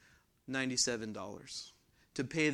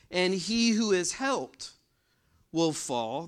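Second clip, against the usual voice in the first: louder, higher scripture-reading voice; emphatic preaching; 4 semitones higher, 5 dB louder, slower than usual. Real, not acted. Preacher reading Isaiah's warning to congregation, emphatic. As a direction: read the verse out firmly and emphatically.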